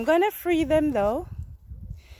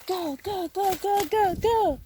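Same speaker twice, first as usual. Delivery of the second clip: urging bird on; 6 semitones higher than usual. Real, not acted. Urging bird to fly away.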